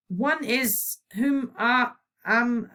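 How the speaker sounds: very slow, put-on posh voice; a boy badly faking posh; mock posh. A narrator's reading. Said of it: "abandoning any attempt at talking posh".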